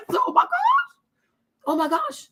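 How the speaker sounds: high, breaking wail of relief; high tearful oh my gosh, voice cracking; overwhelmed cry. Retold or imitated. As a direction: cry it out like you can't believe it. Dad retells seeing his cousin.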